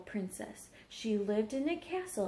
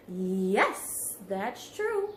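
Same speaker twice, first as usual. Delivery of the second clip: a hint of a proud dragon; smug agreement; 3 semitones lower, 3 dB louder, much slower than usual.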